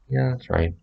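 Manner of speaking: high breezy "Yeah, that's right."; demo of own reply. Shown as a demonstration. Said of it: "Just like that".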